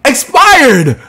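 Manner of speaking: high, hammed-up grief; fake-cry over the lyric; exaggerated mock sorrow; mock mourning.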